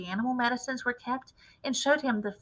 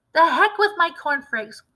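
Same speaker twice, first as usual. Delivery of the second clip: higher and louder, waving it off; dismissive cry; 7 semitones higher, 7 dB louder than usual. A narrator's reading. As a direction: fling the words out. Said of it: "cried Mister Cranky".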